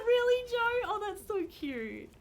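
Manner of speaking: high-pitched delighted gush. Real, not acted. Reacting to a viewer's cute accent story, high gushing. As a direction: squeal it like it's adorable.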